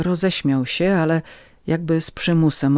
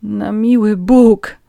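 slow, higher pleading moan; 7 semitones higher, 7 dB louder, much slower than usual. A narrator's reading. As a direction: groan it out in dismay. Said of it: "jęknęła Agnieszka".

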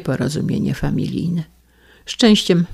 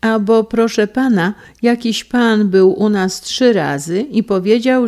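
lightly voiced servant; 6 semitones higher, 6 dB louder than usual. Servant reports, voiced higher.

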